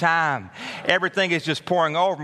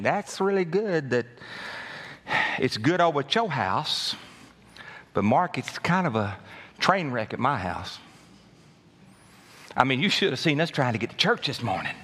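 weary churchgoer. Retold or imitated. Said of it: "you're thinking".

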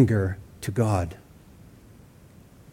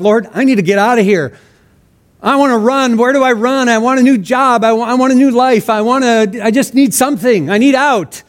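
higher, urgent plea tumbling out; desperate prayer; 5 semitones higher than usual. Retold or imitated. Preacher re-enacts his own prayer to the Lord, desperate plea. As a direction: plead for a way out, restarting as you go. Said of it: "how many times I've prayed something like that".

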